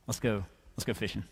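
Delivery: low, soft and understated; calm invitation. Acted. Jesus to Simon in the boat, calm and quiet. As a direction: quietly coax a friend along.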